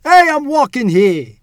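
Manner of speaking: high, very loud, drawn-out New York yell; New York mob voice. Shown as a demonstration. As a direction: holler it like an angry New Yorker. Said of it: "you wanna try one more?".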